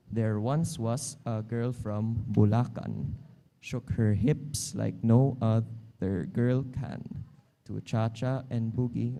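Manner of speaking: very slow, rhythmic reading of a comic verse; limerick reading. Shown as a demonstration. Teacher reads the Bulacan limerick to the class, slow rhythmic reading. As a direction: lean into the bouncing beat.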